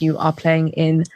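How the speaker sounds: slow, put-on London accent. Shown as a demonstration. Announcing the London tour date in a London accent. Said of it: "That is the accent".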